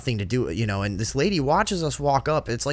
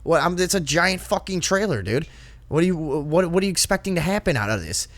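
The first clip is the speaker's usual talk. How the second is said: retold exasperation; 6 semitones higher than usual. Retold quarrel with nosy lady.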